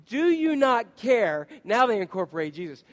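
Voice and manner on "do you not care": pleading accusation. Acted. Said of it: "look what the disciples say".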